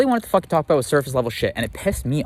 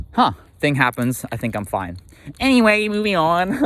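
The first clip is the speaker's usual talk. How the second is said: mock avoidance; 3 semitones higher than usual. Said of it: "the pattern of like".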